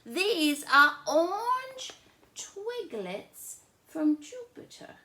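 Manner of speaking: loud, high teasing reply; big brother. Acted. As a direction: play the sly big brother. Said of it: "And I said".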